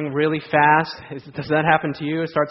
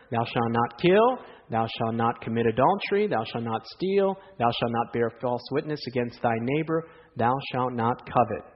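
preacher reciting scripture with weight; solemn scripture reading; 3 semitones lower than usual. Acted. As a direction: read each commandment like holy law. Reads the Ten Commandments aloud.

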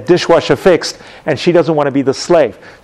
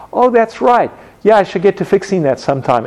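innocent; 4 semitones higher than usual. Retold or imitated. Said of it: "innocently goes".

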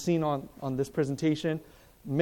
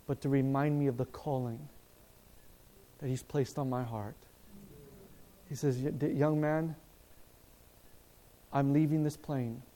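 understated choked-up gratitude; retold crying; 2 semitones lower, 5 dB quieter than usual. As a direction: quietly relay a man on the verge of tears. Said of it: "this young man begins to cry".

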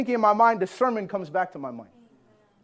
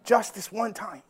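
a hint of a softer, sly tempter; devil's tempting voice; 5 dB quieter, slower than usual. Preacher voicing the devil tempting him to give in, softly coaxing. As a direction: coax it gently like the devil whispering. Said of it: "this is like the voice of the devil talking to me".

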